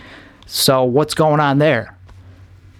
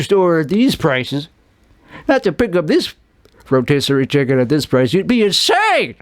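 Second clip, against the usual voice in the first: commercial pitchman. Retold or imitated. Continuing the ad voice.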